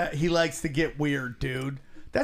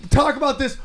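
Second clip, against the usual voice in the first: hyped shout; 6 semitones higher, 7 dB louder than usual. Retold or imitated. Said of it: "I go".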